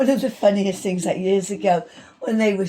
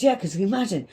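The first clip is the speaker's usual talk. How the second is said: laughing; 4 semitones higher than usual. Retold or imitated. Retelling her optician joke.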